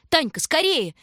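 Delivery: urgent shout. A narrator's reading. Shurka rushing his sister onto the sled, urgent shout. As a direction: hurry her with all your voice. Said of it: "торопил он её".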